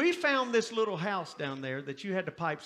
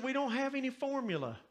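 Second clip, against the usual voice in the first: raised pitch, voicing the wife; lightly voiced exasperated wife, higher; frustrated wife; 6 semitones higher than usual. Wife to husband about the baby, higher frustrated reply. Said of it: "Pam was frustrated".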